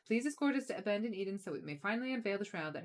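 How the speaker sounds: lightly voiced haughty letter-writer; a hint of a proud noble; indignant noble unicorn. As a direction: read with mildly affronted, formal dignity.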